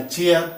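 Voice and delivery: चेयर begun with a CH sound as in "chin". Shown as a demonstration. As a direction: say चेयर with CH, not K or SH. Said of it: "सीएच च कब होता है".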